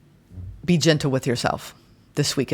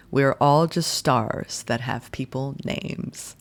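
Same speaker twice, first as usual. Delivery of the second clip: measured, lilting poem recitation; poem reading. Acted. Tarot reader reciting a favorite poem to listeners, measured poem reading. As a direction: read the poem slowly, lingering on line ends. Reads a short poem aloud.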